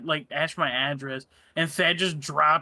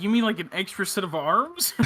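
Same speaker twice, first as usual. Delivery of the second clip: laughing incredulous; 4 semitones higher than usual. Retold or imitated. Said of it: "I was like".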